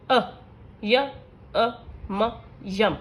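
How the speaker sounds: slow phonics blending with pauses; sounding out hat. Shown as a demonstration. Teacher showing short vowel examples, sound by sound. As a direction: say ए, हा, ए, ट as separate clipped sounds, then blend them into हैट. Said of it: "short vowel के कुछ examples हैं".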